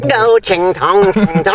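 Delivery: slow, exaggerated mock Chinese accent; drawn-out parody of a Chinese accent. Shown as a demonstration. Mocking Australian accent that sounded Chinese.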